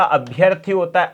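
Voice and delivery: अभ्यर्थी with short अ, no आ; correct form. Shown as a demonstration. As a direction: give the right form अभ्यर्थी. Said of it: "अभ्यार्थी गलत होता है". (सही रूप अभ्यर्थी, छोटा अ)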